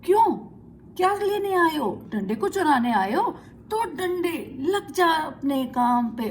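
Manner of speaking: furious yell ordering the stick to attack; loud shout. Acted. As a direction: yell at the thief who came for the stick. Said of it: "जोर से चिल्लाया".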